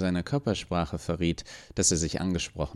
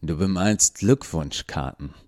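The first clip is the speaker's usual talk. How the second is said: sarcastic snort. Acted. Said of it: "Der Polizist schnaubte sarkastisch".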